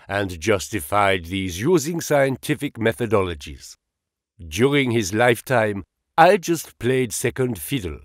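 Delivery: put-on lightly held German accent, modest and earnest; a touch of German, humble about his friend. Engels credits his late friend Marx in a light German accent. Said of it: "with a German accent".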